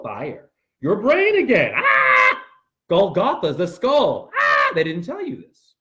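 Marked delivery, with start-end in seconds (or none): 0.8-2.4 loud, high shout; fired-up shout. Real, not acted. Fired-up preaching. 4.4-4.7 loud, high shout; fired-up shout. Real, not acted.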